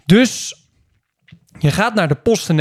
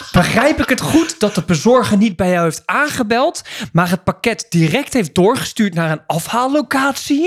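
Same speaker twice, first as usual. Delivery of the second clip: klantenservicestem; 4 semitones higher than usual. Retold or imitated. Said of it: "gemaakte, infantiele manier van reageren".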